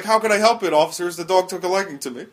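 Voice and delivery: lightly voiced drunk pleading with officers; drunk man. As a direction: play a mildly drunk man, amused. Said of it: "he was drunk".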